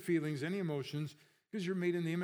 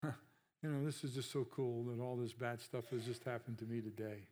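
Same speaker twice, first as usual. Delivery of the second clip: sarcastic fake cheer; 3 semitones lower, 5 dB quieter than usual. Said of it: "You don't need to say".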